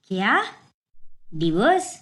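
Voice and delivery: startled, disbelieving question; a sharp shocked repeat. Acted. Parents hear of the divorce, shocked and disbelieving.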